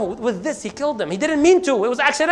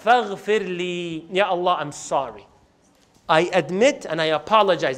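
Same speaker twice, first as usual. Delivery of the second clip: contrite plea; 5 semitones lower than usual. Acted. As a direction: lower the voice and ask humbly for forgiveness. Musa apologizes to Allah in prayer.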